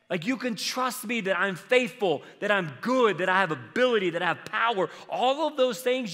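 high-pitched, emphatic pleading as God; impassioned insistence. Acted. God answering doubters about his faithfulness, impassioned insistence.

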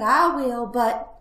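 high, loud piglet concession; reluctant little piglet; sighing resignation. Acted. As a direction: give in, leaving a catch hanging. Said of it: "sighed the piglet".

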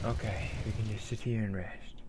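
soft unvoiced whisper. Real, not acted. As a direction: whisper it to yourself. Quiet moment resting.

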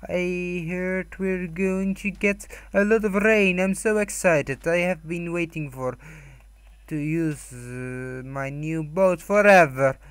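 loud, drawn-out excited character voice; playful excitement. Pretend. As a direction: gush slowly, leaning on the words. Reads out an excited character's line.

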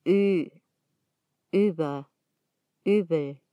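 Ü, Über, Übel with "ee" said through lips rounded for "oo". Shown as a demonstration. Teacher giving an easy way to pronounce it, rounded "ee" in Ü, Über, Übel. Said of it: "poniendo la boca para pronunciar la U y decir I".

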